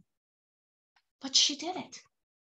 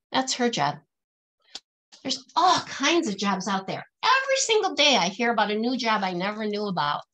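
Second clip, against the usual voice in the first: normal talking voice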